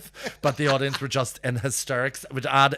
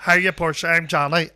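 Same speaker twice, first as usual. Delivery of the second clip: high, loud mimicked greeting; imitated impediment voice; 6 semitones higher, 8 dB louder than usual. Stage manager greeting Portia, imitated impediment. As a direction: introduce yourself in a loud, put-on impeded voice. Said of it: "Johnny continues to talk with his voice".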